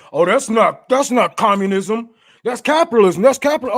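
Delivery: loud, sneering mock quote; mocking capitalists. Streamer mocks capitalists to his viewers, loud and sneering.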